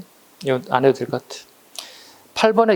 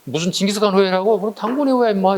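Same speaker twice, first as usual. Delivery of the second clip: put-on childish taunt; 3 semitones higher than usual. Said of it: "꼬맹이들 이렇게 하듯이".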